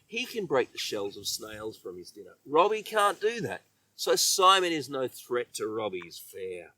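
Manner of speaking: ordinary delivery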